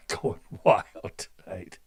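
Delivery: low, laughing through the words. Real, not acted. Radio host laughing at his own rambling, chuckling. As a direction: chuckle it out at yourself.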